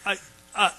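halting, stammered "I, I"; "I" repeated haltingly, in a mock stammer; acted stutter. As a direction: get stuck on "I" and start it over. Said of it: "I stutter".

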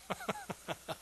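high, soft laugh; quiet giggle of delight; delighted chuckle. Real, not acted. Preacher relishing the psalm, soft delighted laugh.

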